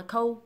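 "cold" cut to "coh", no L or D; common wrong cold. Shown as a demonstration. Teacher mimicking many learners, "cold" missing its ending. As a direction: drop the final sounds of "cold". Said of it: "Nhiều bạn đọc là".

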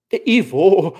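sudden amused dismissal; sudden laughing. A narrator's reading. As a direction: burst out as if laughing it off. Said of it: "lacht sie plötzlich".

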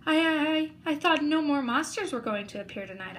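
stammering scared. Acted. Startled boy stammers.

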